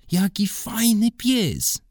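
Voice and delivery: put-on very high, slow, excited child's voice; high little girl crying out over a dog; little girl calling out. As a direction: squeal it out like a delighted little girl. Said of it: "zawołała Mela".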